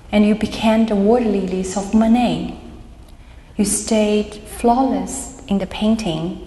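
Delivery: measured verse recital, pausing between lines; deliberate poetry-reading cadence; poem reading. Acted. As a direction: read it out as a poem, phrase by phrase. Reads own poem aloud.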